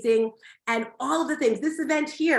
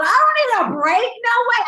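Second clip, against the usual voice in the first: much higher and louder, fired-up and defiant; fired-up shout; 11 semitones higher, 9 dB louder than usual. Real, not acted. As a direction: yell it to pump up the crowd. Hyping crowd about energy.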